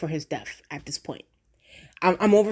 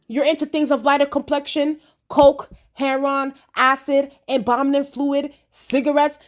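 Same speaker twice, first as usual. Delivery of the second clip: quoting homegirl; 5 semitones higher than usual. Retold or imitated. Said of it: "what did homegirl say".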